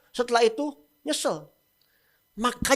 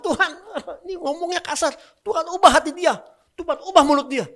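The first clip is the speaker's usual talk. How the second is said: mock whiny prayer; 8 semitones higher, 7 dB louder than usual. Mock complaining prayer about boss.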